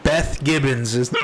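hiccuping mid-sentence; with hiccups. Real, not acted. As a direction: talk through hiccups. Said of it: "I'm fucking having hiccups".

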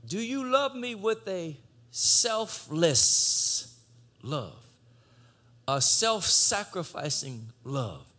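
stretched slow, leaning on "love"; slow emphasis on love. Shown as a demonstration. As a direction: draw out "selfless love" slowly. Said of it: "agapeo, agape".

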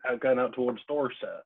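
put-on playful Dorset bumpkin accent; mock West Country bumpkin. Guest playing along with host's bumpkin jibe, mock West Country accent. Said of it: "Bit, bit bumpkin".

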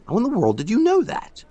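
high, astonished cry; stunned man crying out to the old worker; cried out. A narrator's reading. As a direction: blurt it out in pure astonishment. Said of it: "I cried".

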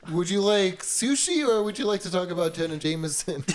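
mock polite server voice; waiter pitch. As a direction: offer it like a waiter, laughing.

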